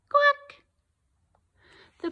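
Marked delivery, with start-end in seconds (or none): 0.1-0.6 high loud quack; tired duck quack. Acted. Duck answering the lazy farmer with a quack. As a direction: quack back wearily.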